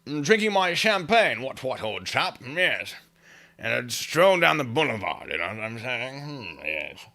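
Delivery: hammed-up posh English toff; mock English gent, playing it up; bad English accent. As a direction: put on a silly, over-the-top English accent. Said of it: "I wanna hear that English accent again".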